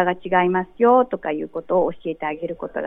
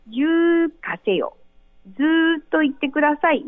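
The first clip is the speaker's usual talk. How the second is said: slow, pointing call of 十かせよ with ずーっと stretched long; drawn-out direction; 6 semitones higher than usual. Shown as a demonstration. Teacher pointing the way, slow drawn-out call. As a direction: point and draw the words out slowly. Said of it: "指をさして".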